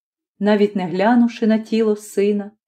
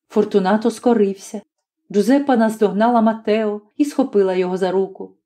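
ordinary delivery

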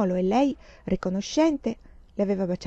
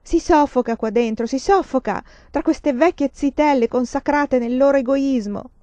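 bitter outburst; 4 semitones higher, 4 dB louder than usual. Acted. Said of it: "volta alle compagne".

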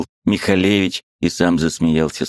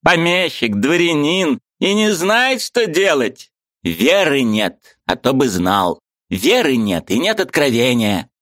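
high, eager voice of a Ukrainian friend; lively high-pitched friend arguing; Mikhalevich's voice; 8 semitones higher than usual. A narrator's reading. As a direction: play the excitable friend up high. Mikhalevich preaching.

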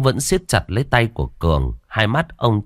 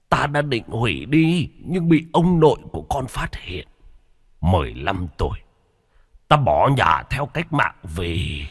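lightly voiced dying old man; a hint of a frail elderly father; 3 semitones higher than usual. Old patriarch telling family curse.

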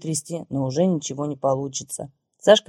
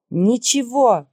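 higher, louder happy cry; shouted; 7 semitones higher, 4 dB louder, slower than usual. A narrator's reading. Woman answering the startled visitors with a happy shout. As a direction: fling the word out joyfully. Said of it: "прокричала я".

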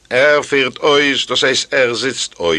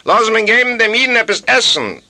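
higher, louder call for food; 11 semitones higher, 4 dB louder than usual. Acted. The host calls out to bring the Jew food, loud and high. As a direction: shout the order across the house. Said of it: "rief sich unter Gewehr".

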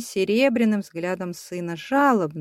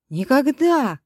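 shout; 6 semitones higher, slower than usual. A narrator's reading. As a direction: fling it out defiantly. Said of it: "крикнул Славка".

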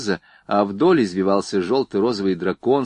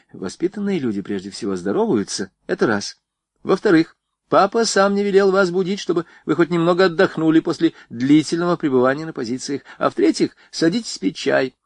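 commanding; 7 semitones higher than usual. A narrator's reading. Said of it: "скомандовала девушка".

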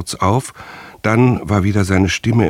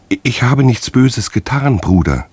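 higher, stammering plea through tears; whimpering tearfully; 7 semitones higher than usual. A narrator's reading. Captured singer begs his teacher, whimpering through tears. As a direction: beg your brother, close to crying. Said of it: "hörte er weinend wimmern".

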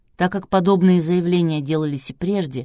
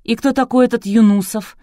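lightly curious, pitched up; almost carefree tone; 5 semitones higher, 6 dB louder than usual. A narrator's reading. Producer asks who Yunusov is, almost carefree. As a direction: ask it with near-casual interest. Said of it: "почти беспечным тоном поинтересовался продюсер".

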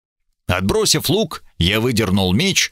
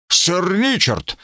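respectful; 7 semitones higher, slower than usual. A narrator's reading. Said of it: "с глубоким уважением к профессионалу".

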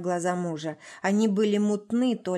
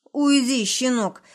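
loud, higher angry snarl; angry shout; 5 semitones higher, 6 dB louder than usual. A narrator's reading. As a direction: bark him away. Father shoves son aside.

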